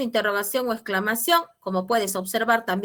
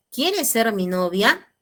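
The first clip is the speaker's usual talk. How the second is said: slow read-out question; 2 semitones higher, 3 dB louder, slower than usual. Retold or imitated. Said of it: "Dice, pregunta".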